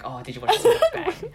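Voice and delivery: high, loud, laughing mockery; mock the trendy fan. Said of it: "everyone's saying".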